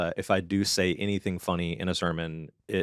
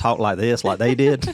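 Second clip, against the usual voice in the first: louder Southern redneck twang; redneck accent; 3 semitones higher, 7 dB louder than usual. Retold or imitated. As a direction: put on a thick redneck accent, half laughing. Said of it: "the whole, like, redneck crowd".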